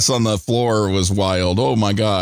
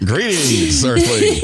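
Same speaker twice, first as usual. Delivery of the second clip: put-on old speech synthesizer; 3 semitones higher, slower than usual. Alien greeting, robotic.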